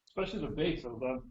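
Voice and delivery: speaking through hiccups. Real, not acted. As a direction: talk with the hiccups. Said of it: "excuse me, I have the hiccups".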